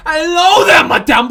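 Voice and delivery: high, loud, overjoyed hello; relieved greeting. Acted. New boy greets the returning teacher, high excited relief. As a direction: greet her like a rescuer.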